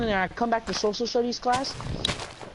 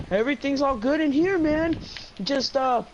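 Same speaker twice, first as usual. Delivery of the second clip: higher-pitched fake-casual reassurance; retold nervous cover-up; 5 semitones higher than usual. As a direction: play innocent, voice pushed up. Covering up to teacher outside bathroom.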